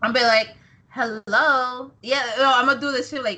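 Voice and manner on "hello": drawn-out put-on phone hello; Sasha Banks. Sasha answering a paid phone call, mimicked. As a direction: answer the phone as an affected celebrity. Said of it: "my Sasha impression is spot on".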